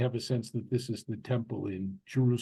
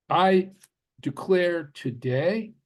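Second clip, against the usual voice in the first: slow, measured recital, raised at the start; formal recitation; 4 semitones higher, slower than usual. Acted. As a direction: declare it deliberately, as a set text. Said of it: "you will now recite this text".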